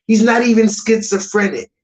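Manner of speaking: ordinary talk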